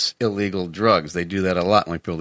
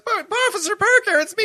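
very high, pleading cry; acted high-pitched plea. Man in bed to armed rookie cop, acted pleading. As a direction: protest in an exaggerated high voice.

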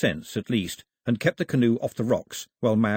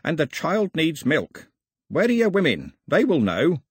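put-on old man voice; 6 semitones higher than usual.

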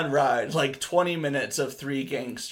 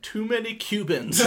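put-on Japanese accent; 7 semitones higher than usual. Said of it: "in a thick Japanese accent".

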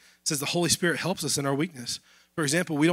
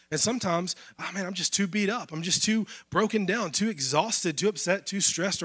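rising, higher and louder lament; emotional; 5 semitones higher, 3 dB louder than usual. Real, not acted. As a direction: pour out the weariness. Describing being beat up.

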